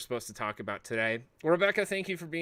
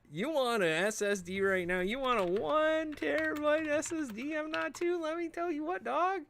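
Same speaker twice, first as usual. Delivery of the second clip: hyped pitch; 13 semitones higher than usual. Pretend. Streamer hypes cheap SSDs to chat, high and excited. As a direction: sell it like a pushy pitchman.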